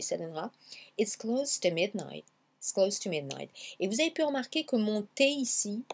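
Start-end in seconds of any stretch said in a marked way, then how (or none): 1.0-3.5 T of TO blended into midnight. Shown as a demonstration. Teacher demonstrates mixing the T into midnight, linked. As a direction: let "to" shrink into the start of midnight. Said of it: "vous allez mêler le T à midnight".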